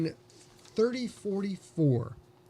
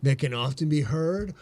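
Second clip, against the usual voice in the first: sexy voice. Pretend. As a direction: purr it out slowly and seductively. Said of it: "We're gonna do this in a sexy voice".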